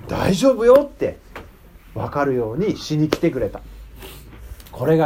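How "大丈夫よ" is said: reassuring. Retold or imitated. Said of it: "イエス様はまずどうしたか".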